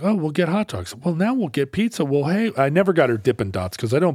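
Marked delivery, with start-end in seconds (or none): 0.0-2.5 higher-pitched coaxing parent; retold cajoling, offering one treat after another; placating. Parent trying to placate a bored daughter, coaxing. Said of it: "I tried to placate her".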